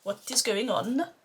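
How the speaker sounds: amateur imitation of a Norwegian accent; roughly put-on Norwegian accent, after a game character; not-great Norwegian accent. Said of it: "a really not great Norwegian accent".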